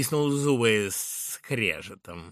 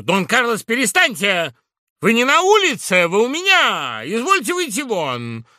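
loud, high scolding; Laura scolds Carlos in her room, furious; Laura, indignant; 12 semitones higher, 13 dB louder than usual. Acted. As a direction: order him out. Laura stops the quarrel.

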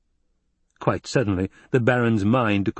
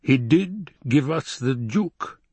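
Baron voice; 4 semitones higher, slower than usual. Acted. Baron asks Piter.

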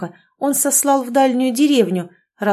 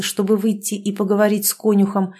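ordinary delivery

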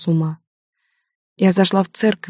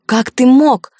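higher, louder furious scream; 7 semitones higher, 7 dB louder, slower than usual. A narrator's reading. Mother screaming at Max while father holds her. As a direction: scream it at him. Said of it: "Она кричит и рвётся в бой".

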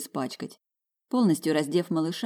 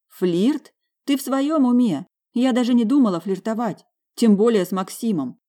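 louder, higher, outraged; indignant outburst; 6 semitones higher, 6 dB louder than usual. A narrator's reading. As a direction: snap back at a jealous husband. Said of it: "прорычала я".

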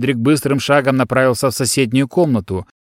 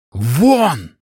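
yelling out; 2 semitones higher than usual. Acted. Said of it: "заорал Адрик".

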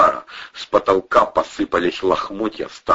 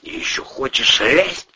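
higher-pitched needling question; snide; 5 semitones higher than usual. A narrator's reading. Man needling his companion about climbing down, snide. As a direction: ask it with a snide edge. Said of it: "ехидно осведомился Вовчик".

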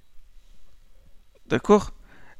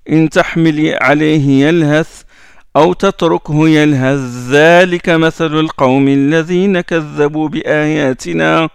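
steady recited chant, a bit louder; Quran recitation; 3 dB louder than usual. Acted. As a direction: recite the verse with full tajwid. Recites verse from Al-A'raf.

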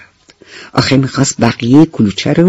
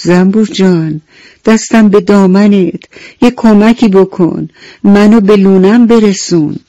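begging beetle; 5 semitones higher than usual. Acted. Injured beetle begs bee for help.

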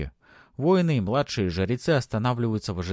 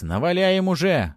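cheering shout; 10 semitones higher, 5 dB louder than usual. A narrator's reading. Foreman urges Max on.

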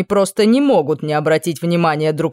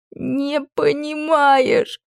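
high, very slow, tearful wail; sobbing protest; 9 semitones higher, much slower than usual. Acted. Princess sobbing at the prince, tearful wail. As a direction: cry it out through sobs. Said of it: "продолжала рыдать я".

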